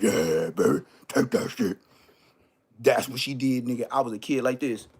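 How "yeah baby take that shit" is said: seductive mock. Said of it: "she was like".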